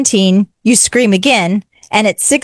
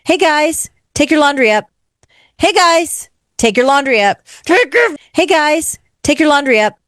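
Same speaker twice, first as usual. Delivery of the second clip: put-on mom calling the kids; 6 semitones higher than usual. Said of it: "I wasn't a yeller until I became a parent".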